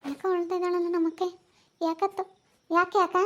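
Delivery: high-pitched, soothing questioning; concerned coaxing. Real, not acted. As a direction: coo high at someone who is crying. Asking crying sister what is wrong.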